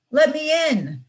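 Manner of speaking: put-on high childlike plea; a small sister begging at the door; little girl pleading. Little sister knocking, pleading to be let in.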